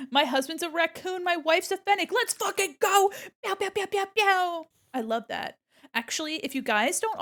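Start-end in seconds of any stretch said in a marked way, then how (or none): 0.1-4.6 louder and higher, building to a hyped shout; excited. Real, not acted. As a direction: get more and more hyped, finishing with pew pew. Hyped reaction to chat.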